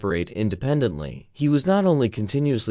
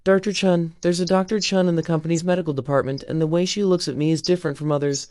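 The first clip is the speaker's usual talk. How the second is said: higher, faster murmured voice of a confused woman; murmuring woman; 7 semitones higher, faster than usual. A narrator's reading. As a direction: murmur it quickly, half lost in memory. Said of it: "suddenly murmured".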